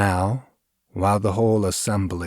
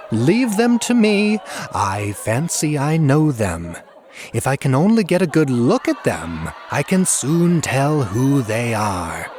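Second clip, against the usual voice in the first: shrill screaming jester; 6 semitones higher, 5 dB louder than usual. A narrator's reading. Jester pretending to know the masked apes, shrill scream. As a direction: shriek it with sly glee. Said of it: "now screamed Hop Frog".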